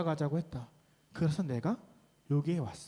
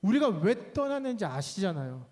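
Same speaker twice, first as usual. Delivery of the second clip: Naomi complaining; 4 semitones higher than usual. Acted. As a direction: pour out a hurt grievance to God. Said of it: "이렇게 했겠죠".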